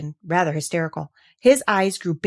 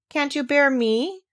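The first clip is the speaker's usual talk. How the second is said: slow question; 7 semitones higher, slower than usual. Acted. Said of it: "asked Mary".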